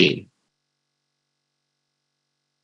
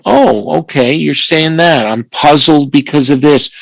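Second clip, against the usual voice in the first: mildly puzzled, understated probing; calm questioning. Acted. Columbo-like questioner peeling back a child's story, calm and puzzled. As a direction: question it calmly, lightly acting the detective. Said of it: "calmly, questioning".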